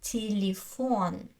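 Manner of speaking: "телефон" with ee in the unstressed syllables; е pronounced as и. Shown as a demonstration. Teacher showing spelling against sound, "телефон" with ee for е. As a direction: say "телефон" as tee-lee-FON. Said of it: "but I say и".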